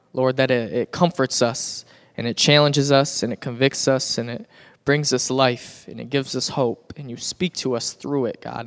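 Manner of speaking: low-pitched prayer to God. Real, not acted. I'm gonna pray.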